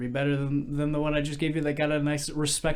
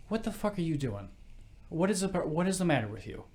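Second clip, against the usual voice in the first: mock exasperation; 6 semitones higher than usual. Bartender confronts crying drunk in joke.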